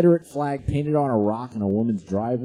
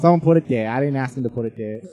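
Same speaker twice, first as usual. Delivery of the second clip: mock redneck woman; 4 dB louder, faster than usual. Voicing the woman in court.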